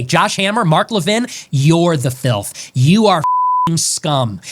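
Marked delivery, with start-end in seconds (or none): 1.5-4.4 slow contemptuous insult. Real, not acted. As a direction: drag each word out, low and disgusted. Insults aimed at named rivals.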